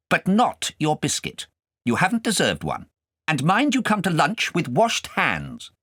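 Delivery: high, loud scolding governess; stern governess. Acted. Governess scolding the boy over his lesson, high and loud.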